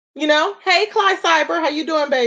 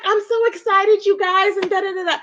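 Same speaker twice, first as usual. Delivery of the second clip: high, mock excited gush; 5 semitones higher than usual. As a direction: gush like she's faking joy. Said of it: "she's like".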